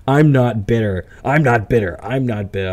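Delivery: needling parody of a man denying he is bitter; mocking John's denial. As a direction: mimic him insisting he is not bitter. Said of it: "Just look at him".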